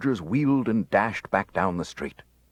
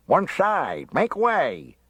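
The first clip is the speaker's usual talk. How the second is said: bawling; 9 semitones higher, much slower than usual. A narrator's reading. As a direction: push through the crowd yelling. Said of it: "he bawled".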